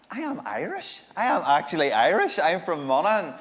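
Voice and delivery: mock-indignant insistence. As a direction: protest it in a high, swooping lilt. Mock-insisting he really is Irish.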